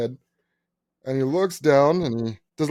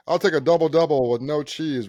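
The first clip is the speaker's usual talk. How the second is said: higher, mock-cutesy older customer; acting cute; 4 semitones higher, 4 dB louder than usual. Older guy joking at the front desk, acting cute. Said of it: "Acting cute".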